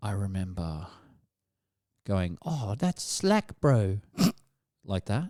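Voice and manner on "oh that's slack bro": put-on New Zealand accent. Retelling a teenage prank phone call, the speaker does a pretend Kiwi accent. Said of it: "I pretended to have a Kiwi accent".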